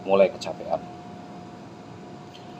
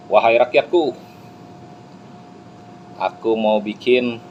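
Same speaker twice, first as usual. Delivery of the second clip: lightly voiced king proclaiming to subjects, louder; pengumuman raja; 4 dB louder than usual. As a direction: announce it like a king, a touch louder. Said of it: "Raja memberi pengumuman". (sedikit lantang seperti raja berpidato)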